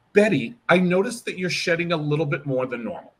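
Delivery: with compassion; gentle, caring tone. Shown as a demonstration. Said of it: "Don't ever go".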